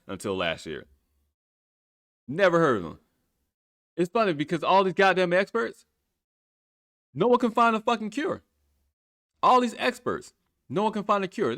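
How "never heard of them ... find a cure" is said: loud, frustrated ranting; angry rant. Real, not acted. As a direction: vent the anger.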